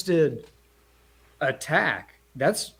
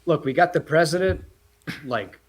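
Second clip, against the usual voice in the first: nonchalant Loki; 3 semitones lower, faster than usual. Retold or imitated. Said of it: "Loki's nonchalant".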